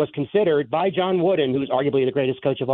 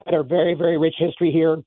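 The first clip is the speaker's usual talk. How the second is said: sick, congested voice; talking through a cold; hoarse from a cold. Real, not acted. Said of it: "I got a cold".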